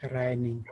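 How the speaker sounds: "lining" dropping in pitch to close; falling intonation. Shown as a demonstration. Teacher completing the silver lining proverb, falling intonation. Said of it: "said with a falling intonation".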